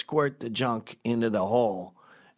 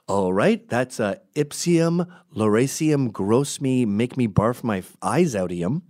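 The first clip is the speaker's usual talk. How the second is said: lightly voiced doctor, loud and emphatic; hammed-up doctor reeling off fake Latin; mock doctor; 3 semitones higher, 4 dB louder, slower than usual. Doctor faced with the junkie, mock-officious.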